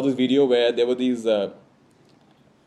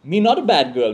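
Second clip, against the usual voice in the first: a louder, mock-indignant little girl; indignant child; 6 dB louder than usual. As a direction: stand up for yourself like an offended toddler. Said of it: "anger flashing in her eyes".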